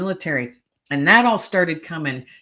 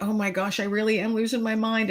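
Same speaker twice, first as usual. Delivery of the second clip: higher-pitched, mildly distraught disbelief; retold distress; 6 semitones higher than usual. Hearing a voice behind her, retold as distraught. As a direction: pitch it up, a touch of panic, no crying. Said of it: "distraught and crying".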